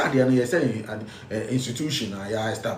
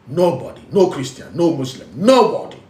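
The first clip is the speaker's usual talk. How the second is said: rising preacher's cry; 2 semitones higher, 4 dB louder than usual. Real, not acted. Preaching climax.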